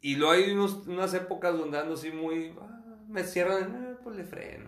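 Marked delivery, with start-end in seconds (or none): 2.6-4.7 exasperated groan at a car cutting in; a hint of a driver's outburst; mock road rage. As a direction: act out getting cut off in traffic, annoyed.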